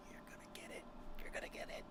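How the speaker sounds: whispered threat, imitating held-in screaming; suppressed scream. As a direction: whisper it as if barely keeping from screaming. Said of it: "holding herself from, like, screaming".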